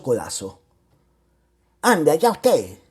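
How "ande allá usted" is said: angry rebuff. Acted. Rebuffing the widow with an elbow.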